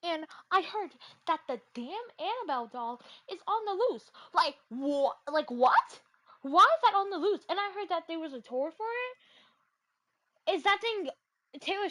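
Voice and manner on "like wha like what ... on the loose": louder, alarmed; shocked disbelief. Real, not acted. Shocked at news of doll.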